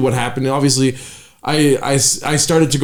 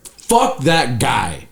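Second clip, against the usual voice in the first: dismissive; much slower than usual. Retold or imitated. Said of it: "I was like".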